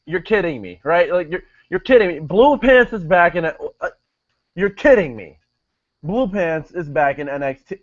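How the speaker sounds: a hammed-up stunned announcer who can't believe she's back; imitating Corey Graves. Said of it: "He is like".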